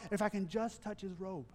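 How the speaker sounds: soft, hushed hope to herself; a hushed hopeful thought; quiet inner voice. Retold or imitated. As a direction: murmur it like a private wish. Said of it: "She simply said to herself".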